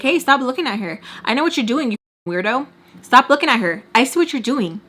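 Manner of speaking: imitating an insistent call-out; calling someone out. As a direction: warn them off, repeating it pointedly. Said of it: "it just keeps calling her out on it".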